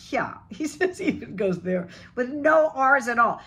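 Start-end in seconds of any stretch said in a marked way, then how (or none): 0.1-0.3 South African "here" as "yah", no R; South African accent. Retold or imitated. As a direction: imitate a South African dropping the R. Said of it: "like my friend from South Africa".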